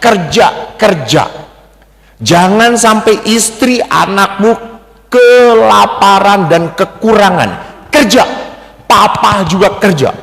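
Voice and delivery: lightly voiced father drilling his son; lecturing father. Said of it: "Dididik oleh ayahnya". (sedikit menirukan ayah yang menasihati tegas)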